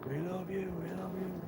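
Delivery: high, softened imitation of a screaming fan; mock distant scream. Rival fan chanting behind the reporter, mock screaming. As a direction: imitate a yelling fan, kept small and high. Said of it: "screaming at the top of his voice".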